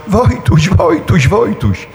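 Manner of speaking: put-on high calls of the boy's name; parents calling out. Parents calling for their buried son, a mild retold call. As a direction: call the name to the boy buried under hay. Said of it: "krzyczą".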